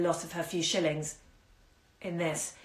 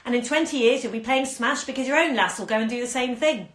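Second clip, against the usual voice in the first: put-on a lightly croaked old woman's jeer, louder; mock her with a light old croak; 6 semitones higher, 5 dB louder than usual. Old woman mocking the pregnant girl, lightly croaking. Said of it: "she croaked".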